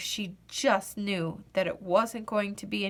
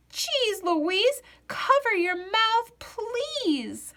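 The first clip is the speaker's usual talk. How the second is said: higher, scolding best friend; bellowing; 11 semitones higher, slower than usual. A narrator's reading. Mary scolding Louise in class, bellowing and high. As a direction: bellow it at her like a cross classmate. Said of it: "Mary bellowed".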